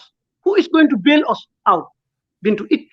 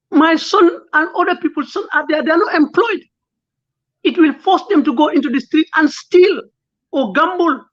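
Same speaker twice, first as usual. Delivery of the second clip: tearful; 4 semitones higher than usual. Real, not acted. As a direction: voice rising and strained with held-back tears. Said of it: "I'm sorry to be tearful".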